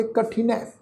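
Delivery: ਕਠਿਨ ਹੈ run together as kathinai; teacher's model of ਕਠਿਨ ਹੈ; demonstrated pronunciation. Shown as a demonstration. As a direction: join ਕਠਿਨ ਹੈ with short i, ending on ai. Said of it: "ਇਸ ਦਾ ਪਾਠ ਉਚਾਰਨ ਕਰਾਂਗੇ".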